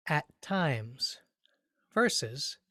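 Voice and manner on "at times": "At times" with equal weight on "At" and "times"; even stress. Shown as a demonstration. Teacher modeling "At times" with even beats. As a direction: give "At" and "times" the same weight. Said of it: "say it with me right now".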